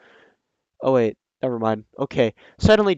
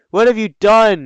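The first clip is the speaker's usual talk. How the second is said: crying wisely; 7 semitones higher, 8 dB louder than usual. Acted. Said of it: "He started to cry wisely".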